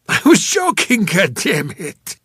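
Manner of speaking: high, loud outburst, slowing on "goddammit"; exasperated protest. A narrator's reading. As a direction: burst out in indignant self-defence. Cornered man protests the accusation.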